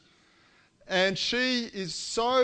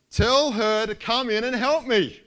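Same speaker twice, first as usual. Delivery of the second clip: commanding; 4 semitones higher, 5 dB louder than usual. Retold or imitated. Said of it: "She's commanding Jesus".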